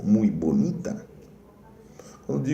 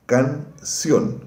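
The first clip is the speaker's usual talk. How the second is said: "canción" split as can, ción, higher pitch; syllable-by-syllable demo; 4 semitones higher than usual. Shown as a demonstration. Teacher giving another example of final stress, "canción" said in two separate syllables. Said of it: "Quando eu digo canción".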